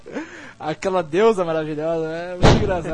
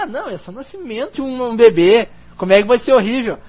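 defensive Monica; 3 semitones higher, 6 dB louder, faster than usual. Retold or imitated. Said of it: "Aí ela".

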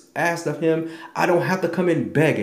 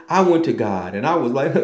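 ordinary talk, nothing marked

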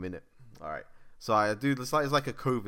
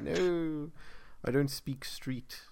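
mom's dismissive reply; 4 semitones higher, 5 dB quieter, much slower than usual. Retold or imitated. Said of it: "she's like".

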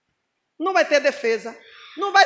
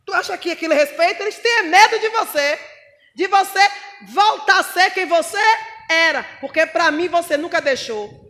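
voz do diabo; 4 dB louder than usual. Retold or imitated. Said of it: "Aí o diabo".

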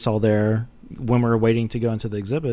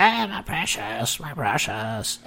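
Gollum voice; 3 semitones higher, slower than usual. Pretend. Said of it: "I'll do all the voices".

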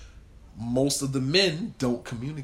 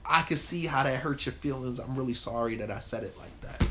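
gentle apology. Retold or imitated. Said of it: "then you can say".

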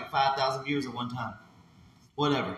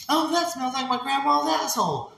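much higher mock delight; NPC streamer; 9 semitones higher than usual. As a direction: gush it like a hammed-up NPC. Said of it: "And you go".

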